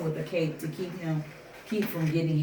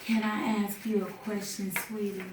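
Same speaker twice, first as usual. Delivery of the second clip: higher, teasing flirtation; seductive; 4 semitones higher than usual. Acted. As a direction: tease him suggestively. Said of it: "leans in close seductively".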